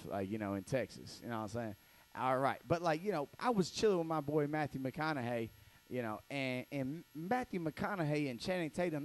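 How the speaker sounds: lightly voiced laid-back bragging; Charles Kelly as McConaughey. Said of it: "here's my impression of Charles Kelly doing a Matthew McConaughey".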